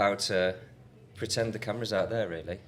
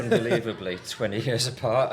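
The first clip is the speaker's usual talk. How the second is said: louder, laughing disbelief; 3 semitones higher, 6 dB louder than usual. Real, not acted. Laughing at the age gap.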